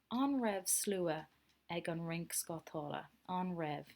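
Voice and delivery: "An raibh slua" spelled out slowly for pupils; slow model reading. Shown as a demonstration. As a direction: drag each word so the class can copy. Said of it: "So this is the past question word".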